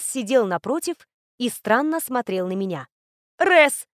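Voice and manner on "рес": higher, louder happy exclamation of Рес; startled joyful call; surprised cry. Acted. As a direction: blurt his name out in glad surprise. Startled joy at seeing Res.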